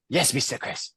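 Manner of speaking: soft, obedient little reply; imitated John Lee. John Lee told to sit down, lightly imitated soft reply.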